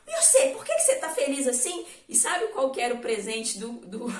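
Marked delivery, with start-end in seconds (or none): 0.1-1.8 high, quick question through laughter; father asking amused, laughing. Acted. Father asks happy son, laughing.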